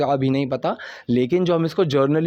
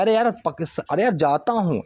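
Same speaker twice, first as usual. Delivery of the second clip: insistent; 3 semitones higher than usual. Shown as a demonstration. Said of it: "थोड़ा ज़ोर लगा के बोलना है".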